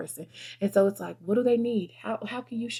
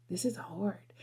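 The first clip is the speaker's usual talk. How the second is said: whispered frustration; 7 dB quieter, slower than usual. Retold or imitated. Remembering gym frustration.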